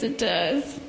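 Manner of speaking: gentle storybook reading; children's story time in church. Acted. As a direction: read the bear story to the kids.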